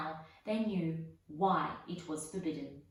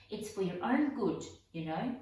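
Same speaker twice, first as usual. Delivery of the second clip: mock saintly; 2 semitones higher, 5 dB louder than usual. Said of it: "in a saintly voice".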